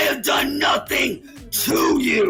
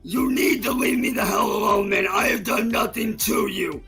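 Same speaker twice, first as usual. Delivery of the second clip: berserk rage. Real, not acted. Ranting shout at harasser.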